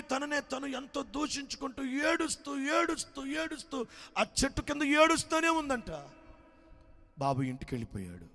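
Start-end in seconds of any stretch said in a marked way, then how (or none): 0.0-6.1 tearful narration. A narrator's reading. Narrator swept up in grief.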